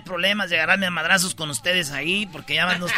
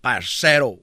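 put-on Colombian accent; 7 semitones lower than usual. A Colombian waiting for his food, light Colombian accent. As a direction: say it calm and Colombian. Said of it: "un colombiano ... y dice".

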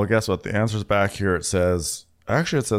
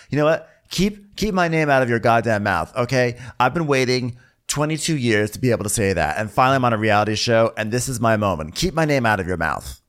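higher, mock-dramatic outburst; indignant telling-off; 3 semitones higher than usual. Mikhail warns TJ at the table, indignant. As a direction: play up the indignation, pitch raised. Acted quarrel.

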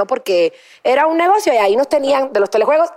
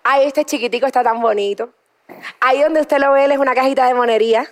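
Cuban accent. Shown as a demonstration. Host demoing a Cuban "llame ya" ad. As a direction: sell the little gadget in a Cuban accent. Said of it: "Eso sería cubano".

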